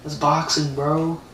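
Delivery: mocking jeer. Party crowd jeering at the complaining boxer, drawn out and mocking. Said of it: "everyone was like".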